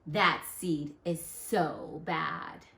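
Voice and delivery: gossiping seeds. Acted. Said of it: "they look at me and they say".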